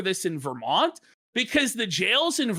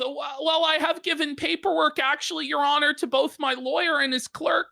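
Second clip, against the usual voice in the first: quoting Tarl; 5 semitones higher, faster than usual. Retold or imitated. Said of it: "So Taro goes".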